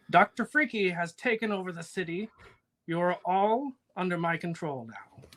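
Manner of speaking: nasal loudspeaker announcement; villain on a megaphone, nasal and smug; nasally villain voice. Acted. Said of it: "this, like, nasally voice".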